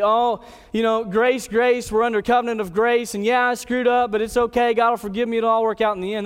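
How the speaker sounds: glib, hand-waving mimicry of a churchgoer; casual excuse-making. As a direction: brush it off lightly, running the excuses together. Mimics casual excuse before God.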